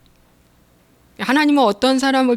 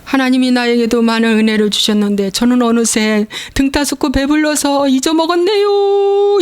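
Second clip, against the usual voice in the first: a touch of a confessing prayer, slowing at the end; repentant prayer; 2 semitones higher, 4 dB louder than usual. Retold or imitated. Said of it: "이렇게 기도하는 거예요".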